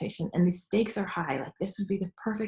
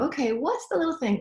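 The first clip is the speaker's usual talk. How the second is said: self question; 7 semitones higher than usual. Retold or imitated. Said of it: "So you go".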